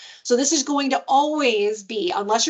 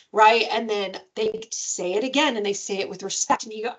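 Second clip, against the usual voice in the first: normal talking voice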